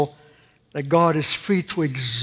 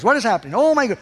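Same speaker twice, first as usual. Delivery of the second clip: mock panic; 5 semitones higher, much faster than usual. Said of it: "And we say".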